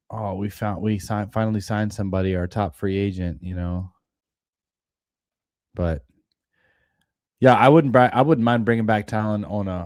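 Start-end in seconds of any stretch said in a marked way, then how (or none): none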